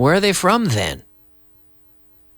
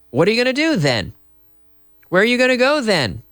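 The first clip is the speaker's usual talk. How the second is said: fast, high, curious question; demo question; 8 semitones higher, faster than usual. Shown as a demonstration. Teacher playing the puzzled friend, high and fast. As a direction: fire it off quick and high. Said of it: "demo of "then" questions".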